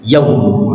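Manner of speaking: yaum with a long ya and a quick w; wrong uneven length. Shown as a demonstration. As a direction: show the faulty yaum, w cut short. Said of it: "iaknya lebih lama, wawnya cepet".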